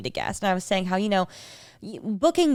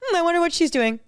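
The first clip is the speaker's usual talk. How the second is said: imitating Cal; 9 semitones higher, faster than usual. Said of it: "I literally imagine him".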